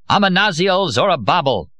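high, loud magic words hurled out; booming spell at a foe; incantation. A narrator's reading. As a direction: cast the curse like a blow. Dee casts a spell.

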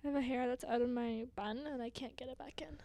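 hushed whisper; barely breathed, no voice. Real, not acted. Whispering in quiet room.

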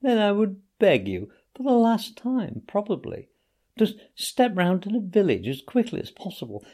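a hint of a faked deathbed plea; feeble invalid Toad. A narrator's reading. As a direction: Toad begging Rat to fetch the doctor. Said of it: "more feebly than ever".

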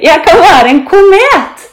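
high, loud and thrilled; excited shout. A narrator's reading. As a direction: call out a brilliant new idea. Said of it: "roper Benny". (begeistret, høyt rop)

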